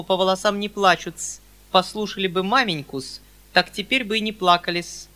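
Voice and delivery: high, loud prim reproach; spiteful spinster. Acted. Perepelitsyna reproaches the uncle, high and spiteful. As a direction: needle him with servile politeness.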